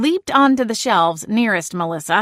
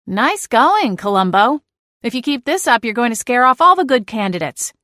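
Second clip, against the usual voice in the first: a slightly louder, higher telling-off; mild scolding; 4 semitones higher, 3 dB louder than usual. Acted. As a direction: scold the cat, exasperated. Scolding the cat.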